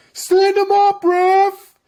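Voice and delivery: high, loud heckler's shout; imitated fan yell. Fan behind him heckling the referee, high mocking yell. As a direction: yell it out like a rowdy fan at the ref. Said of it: "guys yelling out".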